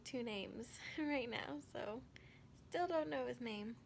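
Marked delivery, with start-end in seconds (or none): none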